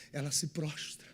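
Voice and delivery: normal talking voice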